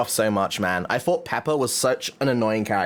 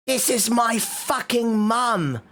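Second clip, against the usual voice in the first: much higher, slow cartoon piglet voice; Peppa Pig; 10 semitones higher, slower than usual. Streamer introducing the piggy family as Peppa, high and slow. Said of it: "my impression of Peppa Pig".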